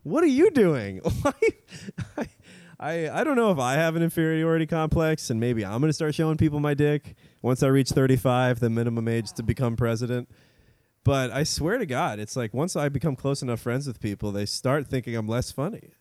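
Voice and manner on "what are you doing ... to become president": a light, higher Obama with pauses; measured Obama cadence, pitched up; lightly voiced Obama; Obama impression. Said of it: "That was a good Obama".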